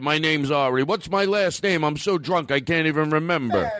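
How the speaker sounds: lightly voiced drunk forgetting his name; a hint of a sloppy drunk; mild mock drunk rant; mock drunk guy. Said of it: "He's talking to himself".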